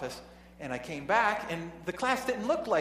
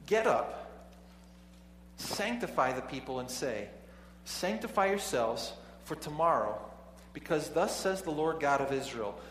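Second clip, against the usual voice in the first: measured formal Bible reading; scripture reading. Acted. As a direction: read the passage with solemn weight. Reads scripture aloud.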